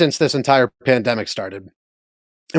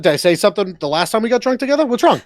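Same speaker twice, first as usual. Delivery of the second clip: higher, quick pretend worried voice; mock apologetic friend; 4 semitones higher, faster than usual. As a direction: fake anxious apology. Playing a hurt friend after the bit.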